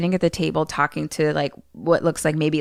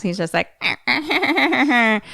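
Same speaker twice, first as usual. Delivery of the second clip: creepy laugh; 6 semitones higher, much slower than usual. Retold or imitated. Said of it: "creepy laughs".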